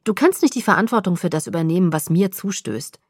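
loud, pressing, insistent; urgent protest. Acted. Bella pleading with Edward, loud and insistent. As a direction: push the point hard at him.

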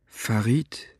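toneless, empty voice. A narrator's reading. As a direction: say the name with no feeling. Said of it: "antwortete er mit tonloser Stimme".

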